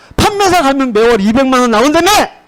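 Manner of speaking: put-on furious yelling, high-pitched and angry. Speaker retells someone shouting at their sponsor, retelling someone shouting. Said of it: "스폰서한테 막 소리를 지르면서".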